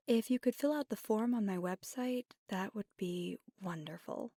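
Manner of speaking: lightly brisk, upbeat business voice; professional phone manner. Acted. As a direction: handle the client courteously on the phone. Takes a client's business phone call.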